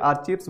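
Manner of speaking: "आर्चीव्स" as "ar-CHEEVS"; common mispronunciation. Shown as a demonstration. Teacher warning students off the error, "आर्चीव्स" said with a ch sound. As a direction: misread "आर्चीव्स" with ch and a long ee. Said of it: "बोलना गलत है".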